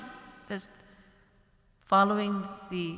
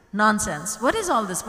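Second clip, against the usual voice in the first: indignant outburst; 6 dB louder than usual. Retold or imitated. Husband angry at wife's trick.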